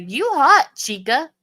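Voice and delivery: high, loud mock catcall on "You hot"; incredulous imitation of a catcalling man; mimicked Southern man. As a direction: throw out an exaggerated come-on, dropping back on "chica". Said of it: "a Southern man say".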